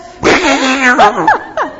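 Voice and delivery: loud, comic cartoon noise; Daffy Duck-like noise. Helper making sound effects for a children's story, cartoonish. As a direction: blurt out a silly cartoon-like noise. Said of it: "That sounds like Daffy Duck".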